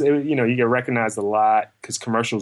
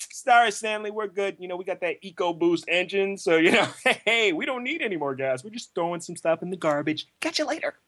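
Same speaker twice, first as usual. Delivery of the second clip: smug commercial dad; 6 semitones higher than usual. Retold or imitated.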